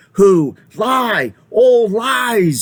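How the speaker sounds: heated badger. A narrator's reading. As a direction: cut in sharply.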